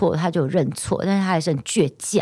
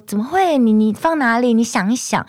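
imitating mom; 6 semitones higher, 3 dB louder than usual. Mom denying, voiced in story.

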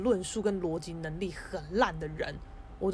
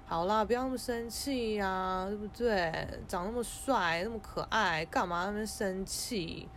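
coaxing; slower than usual. Retold or imitated. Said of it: "那我当然就赶快哄他".

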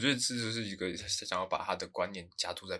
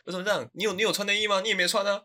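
high, loud indignant retort; talking back; 12 semitones higher, 6 dB louder than usual. Retold or imitated. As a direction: snap back at dad indignantly. Kid talking back to dad. (不服气地顶嘴爸爸)

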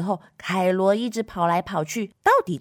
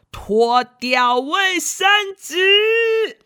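higher, louder, slow command; stern shout; 9 semitones higher, 4 dB louder, much slower than usual. Acted. Nanny scolding Kailuo to take off the paper, higher and louder. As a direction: order the child firmly.

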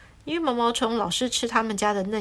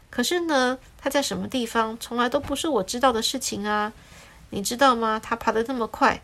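mildly cheerful, a bit lively; relieved and pleased with himself; the lemon happily tells the sparrow he doesn't know. Acted. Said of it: "这时候就很开心地说".

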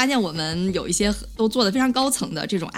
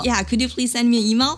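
resigned request; 4 semitones higher than usual. Retold or imitated. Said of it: "很无奈地跟他说".

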